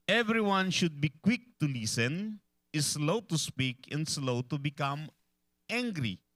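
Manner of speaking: slow, weighty reading of the verse; scripture reading. Acted. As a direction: read each phrase slowly, like holy writ. Reads James 1:19 slowly. (mabagal at mabigat na pagbasa ng talata)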